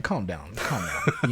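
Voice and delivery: low, soft aside; calming down. Retold or imitated. Conference guest to over-proud church members, low soft calming.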